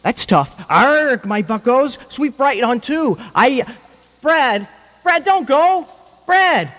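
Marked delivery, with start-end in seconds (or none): 0.7-3.6 lightly voiced pirate calling a play. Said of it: "I talked like a pirate?". 4.2-6.7 pleading. Real, not acted. Begging Brad as he leaves.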